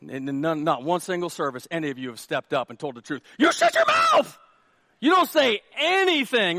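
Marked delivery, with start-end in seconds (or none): 3.4-6.6 high, loud comic shout; mock shouted warning. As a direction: yell it as a frantic warning. Mock warning to men listening.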